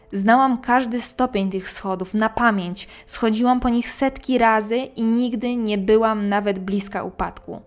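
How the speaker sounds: measured storyteller reading a first-person ghost tale; scary story narration. A narrator's reading. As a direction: narrate an eerie true story, pausing between phrases. Reads a listener's ghost story aloud. (opowiadanie strasznej historii, głos lektorki)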